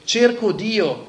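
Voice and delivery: madman's slow, loud "Cerco Dio", drawn out and high; crying out. Acted. Madman crying out in the market for God, slow and loud. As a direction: call out slowly as if searching desperately. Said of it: "si mise a gridare incessantemente".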